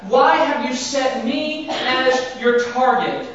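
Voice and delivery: slow, weighted lament; slow pleading question. Acted. Job asking God why, slowly. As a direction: drag out the question in sorrow. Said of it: "he asked".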